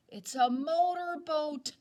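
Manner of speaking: high, loud eager guess. Acted. Boy guessing the noise.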